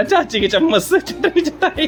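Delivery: high mocking put-on voice through laughter.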